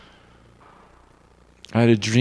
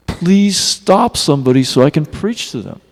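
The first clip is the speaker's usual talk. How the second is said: imploring retold cry; measured, heartfelt mock plea; visceral plea; 3 semitones higher, 4 dB louder than usual. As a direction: plead from the gut, imitating the teacher. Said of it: "It was a visceral cry like anything".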